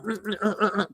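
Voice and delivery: quick grunts imitating punches; rapid-fire mm and uh like jabs; imitated jab noises. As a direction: punch out short mock jab sounds. Imitates her quick jabbing.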